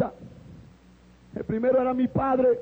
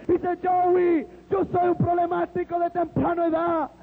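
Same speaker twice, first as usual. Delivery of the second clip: raised, fervent testimony with shouted peaks; impassioned preaching; 3 semitones higher than usual. Retold or imitated. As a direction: pour it out like a revival preacher. Christian retelling his conversion, shouting.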